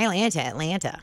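"Atlanta" said twice with the second T sounded; Atlanta with T's. Shown as a demonstration. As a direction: repeat "Atlanta" the outsider's way, T intact. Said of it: "I say Atlanta".

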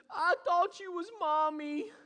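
put-on high, slow little girl voice; toddler daughter. Father retelling his daughter's words, high childlike voice. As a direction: gently imitate a two-year-old. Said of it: "And she says".

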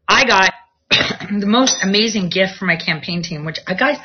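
ordinary talk, nothing marked

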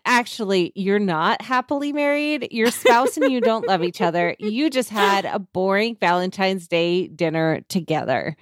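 "not" pushed up in a smug contradiction; insistent chatbot rebuttal. Shown as a demonstration. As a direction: correct him with eerie certainty. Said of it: "dramatic reading".

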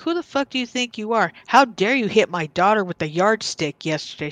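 mildly indignant retold scolding; a touch of confrontational outrage; retold telling-off. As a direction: imitate a mother going off on a teacher, lightly. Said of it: "went off on this woman".

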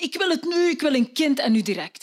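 high, insistent wife's cry; wife calling out that she wants a child now; demanding call. Acted. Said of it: "die vrouw roept".

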